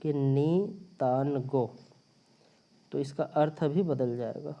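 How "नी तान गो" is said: नी तान गो spelled out slowly, each word apart; teacher slowly reads नी तान गो in its new word order; reordered sentence demo. Shown as a demonstration. A Hindi teacher showing students the reordered Chinese sentence, slowly. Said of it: "स्थान यदि बदल कर ऐसे रख दिया जाए".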